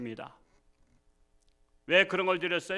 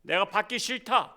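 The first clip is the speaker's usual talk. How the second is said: louder, stern divine rebuke; rebuking God; 2 semitones higher, 6 dB louder than usual. Retold or imitated. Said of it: "하나님께서 말씀하시잖아".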